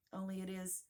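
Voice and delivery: mildly forlorn, gently lifted voice; a touch of lonely sadness; melancholy. Acted. Alice tells the queen she is lonely, melancholy. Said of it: "in a melancholy voice".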